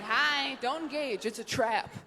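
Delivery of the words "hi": put-on waving baby. Baby greets a stranger from the stroller, chirpy. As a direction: chirp a baby's hello. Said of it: "those babies that wave at you".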